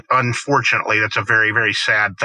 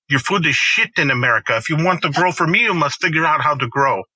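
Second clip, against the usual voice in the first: put-on playful French accent on a chef's blunt verdict; 3 semitones higher than usual. Telling American farmers their food is bad, in a light French accent. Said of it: "I like your French accent".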